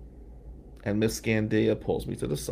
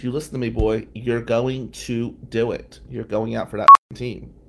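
mock stern teacher, louder to the end; stern order; 6 dB louder than usual. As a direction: retell her scolding with force. Teacher grabs him, orders him.

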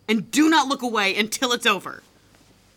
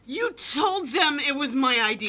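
yelling accusation; 7 semitones higher than usual. Acted. She yells at her boyfriend over what he told her friends. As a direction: hurl the accusation at him. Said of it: "You're yelling at me".

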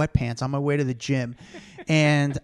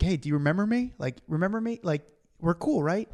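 higher, questioning lilt; unsure, rising ask; tentative greeting; 3 semitones higher than usual. Retold or imitated. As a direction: check hopefully whether they know you. Acts out unsure greeting to celebrities.

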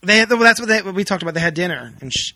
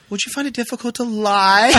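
quote laughing; 5 semitones higher than usual. Retold or imitated. Host retells the coach's question to Muriel, laughing. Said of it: "the coach looks at Muriel and says".

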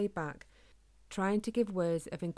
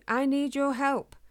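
loud, higher, slow plea; shouting for help; 7 semitones higher, 6 dB louder than usual. A narrator's reading. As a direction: call urgently for help. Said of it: "he shouted".

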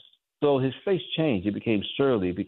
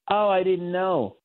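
slow, higher-pitched mock white-boy accent; Leave It to Beaver white-boy accent; 6 semitones higher, slower than usual. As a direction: draw it out high, imitating a sitcom white boy's accent. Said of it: "in a white boy accent".

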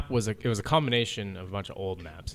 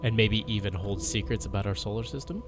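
dramatic mystery narrator voice; documentary narration. Acted. Documentary intro continues.

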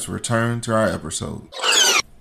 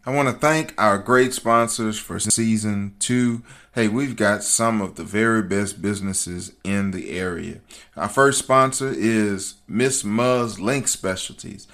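normal talking voice

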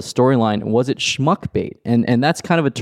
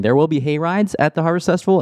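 lightly voiced Leslie; 6 semitones higher than usual. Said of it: "Leslie saying".

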